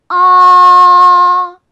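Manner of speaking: 아 held long, high and level, loud; first tone. Shown as a demonstration. Teacher showing learners the first tone, high level 아. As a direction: sustain 아 on one high note. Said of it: "높은 음에서 높은 음까지 쭉".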